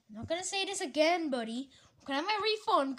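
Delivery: last warning, buddy; threatening. Pretend. Customer threatening the clerk.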